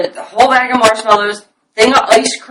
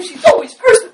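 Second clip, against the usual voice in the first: gossiping neighbour; 11 semitones higher than usual. Retold or imitated. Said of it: "she's like".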